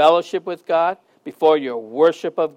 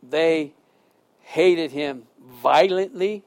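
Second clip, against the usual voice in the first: prayer. Acted. Closing prayer.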